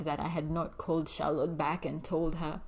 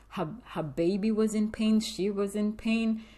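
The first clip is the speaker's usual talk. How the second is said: upset; 5 semitones higher, 5 dB louder than usual. Real, not acted. Upset retelling.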